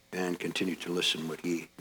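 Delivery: hushed prayerful close. Real, not acted. Leads the congregation into silence.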